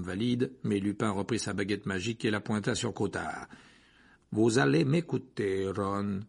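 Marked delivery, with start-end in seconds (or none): 4.3-6.2 slow, calm and firm; slow down and insist calmly. A narrator's reading. Lupin makes Ron listen, calmly. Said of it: "dit-il calmement".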